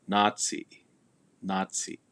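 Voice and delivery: Nazi as naa-tsi, long stressed a; lengthened A. Shown as a demonstration. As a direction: hold the first vowel of Nazi a little longer. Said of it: "the A is pronounced a little longer".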